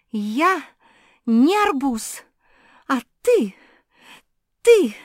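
high, loud angry yelling; furious outburst. Acted. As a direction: scream it in a rage.

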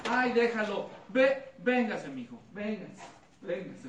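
a hint of a mother calling her boy over; coaxing mother. (mamá que llama a su hijo, suave)

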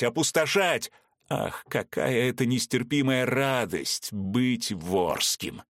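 lightly voiced madman gloating; gloating villain. Vorski gloating over captive Veronika, lightly mad. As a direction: savour every threat.

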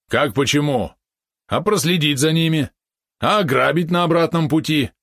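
high, loud indignant yapping; yappy small dog. Acted. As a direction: protest like an offended little dog. Valeron indignant explanation.

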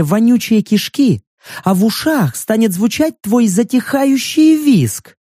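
чуть выше, невинно-жутко; смакуя ужасы с невинностью; наивная девушка. Acted. (наигранно мечтательный голос)

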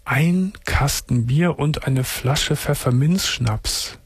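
slow, disbelieving repeat; incredulous. Real, not acted. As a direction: spell out each word in disbelief. Host repeats caller's daily amount.

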